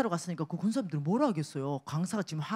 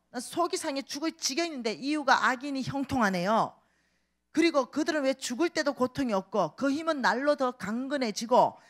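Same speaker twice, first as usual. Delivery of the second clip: higher, plaintive cry to God; complaining psalmist; 5 semitones higher than usual. Acted. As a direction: pour out the grievance. (하나님께 하소연하듯 높게)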